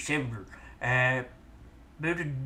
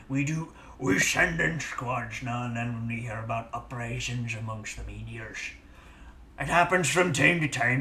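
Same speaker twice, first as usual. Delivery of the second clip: put-on gruff pirate accent. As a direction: talk like a salty pirate. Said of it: "This is slowly becoming a pirate voice".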